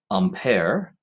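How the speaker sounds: Ampere with a nasal French first vowel, ahm-PAIR; French pronunciation. Shown as a demonstration. Naming the French scientist to the class, French pronunciation of Ampere. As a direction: say Ampere the French way, open AIR ending. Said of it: "don't give the French pronunciation".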